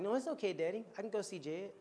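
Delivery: lightly voiced child, lifting at the start; young daughter. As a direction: imitate a little girl reassuring her daddy. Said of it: "And then Phoenix was like".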